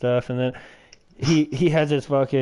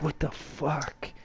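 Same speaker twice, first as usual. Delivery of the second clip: baffled what the fuck; 3 semitones higher, 9 dB quieter, much slower than usual. Retold or imitated. Friend retelling tripping, stunned and slowed. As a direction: drag it out in stunned confusion. Reacting while tripping on film.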